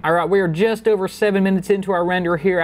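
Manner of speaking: lightly put-on Southern accent; a playful touch of Southern accent. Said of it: "talking in a Southern accent".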